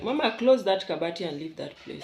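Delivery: loud, bossy order; retold command. Woman retelling how she was ordered away from the cupboard, loud. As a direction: bark the order like a fed-up elder. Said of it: "And then she was like".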